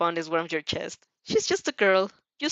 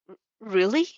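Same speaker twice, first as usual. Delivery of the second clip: stammered, startled question; a touch of surprised stammer; stammering exclaim; 3 dB louder than usual. Acted. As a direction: stumble over it in surprise. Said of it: "she exclaims".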